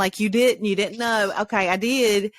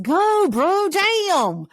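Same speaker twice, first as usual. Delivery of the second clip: put-on teen quote; 11 semitones higher, 4 dB louder, much slower than usual. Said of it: "he said to Quest".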